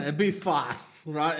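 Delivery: slow, laughing mock repeat of a bit; laughing, drawn out. Joking back to the officer, slow and laughing. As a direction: laugh through bit fast, slowly. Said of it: "And he started laughing".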